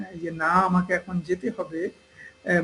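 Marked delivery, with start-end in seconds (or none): 0.3-1.9 না slightly stretched, then the sentence follows; mild insistence. Shown as a demonstration. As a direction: stretch না as if there is a need to go. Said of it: "না গেলে কিছু অসুবিধা হবে". (না একটু টেনে, প্রয়োজন বুঝিয়ে)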